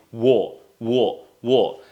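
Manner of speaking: "wo" as a rounded British "aw"; British O sound. Shown as a demonstration. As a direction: repeat "wo" as a drill, evenly spaced. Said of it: "In British accent, we say".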